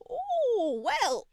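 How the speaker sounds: high startled squeal; flustered squeal. Acted. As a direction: gasp it out, caught off guard. Flustered heroine reacts to kiss.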